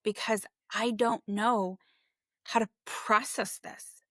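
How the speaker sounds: shaky sigh. Real, not acted. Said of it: "I'm trying not to cry".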